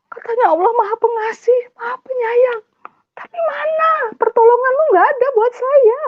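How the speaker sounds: very high tearful wail; crying angry protest. Retold or imitated. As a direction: cry out at God, voice pitched right up with tears. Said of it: "saya marah".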